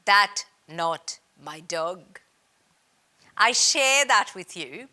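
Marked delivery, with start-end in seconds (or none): 0.1-2.2 slow, deadpan reply in a mock French accent. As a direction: drop the punchline in a light French accent. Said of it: "my Indian version of a French accent".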